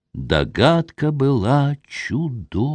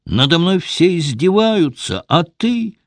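higher, rising accusation, voice climbing; accusing outburst; 6 semitones higher than usual. A narrator's reading. Wife accuses her husband of not protecting her, high accusing cry. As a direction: hurl the blame at him. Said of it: "сжав кулаки, двинулась на супруга".

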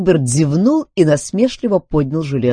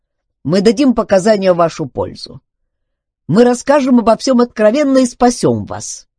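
insistent robot, higher and louder; persuasive robot; 7 semitones higher, 6 dB louder than usual. Acted. Robot promises Duncan testimony to save him, insistent. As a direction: plead the robots' case, pitched up.

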